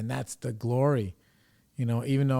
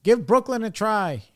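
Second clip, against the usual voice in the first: loud teasing; 8 semitones higher, 5 dB louder than usual. Retold or imitated. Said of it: "He's like".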